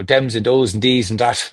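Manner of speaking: Irish, words spat out forward; Irish accent. Shown as a demonstration. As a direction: demonstrate Irish, hard D for TH. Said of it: "if you wanna be Irish".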